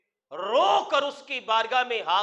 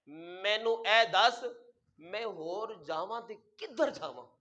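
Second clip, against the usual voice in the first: weeping plea; 5 semitones lower, 8 dB quieter than usual. Retold or imitated. Preacher voicing the old man crying to the youth, soft sobbing plea. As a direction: ask where else to go, near tears. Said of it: "بابا جی نے رو کر".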